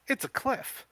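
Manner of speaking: high, squeaky voice of disbelief; crying out. Acted. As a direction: shriek it in panic like Kim. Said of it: "she cries".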